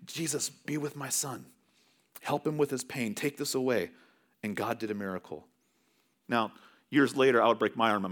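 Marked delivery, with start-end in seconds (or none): 0.1-3.9 quiet prayer. Retold or imitated. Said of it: "my dad was just praying".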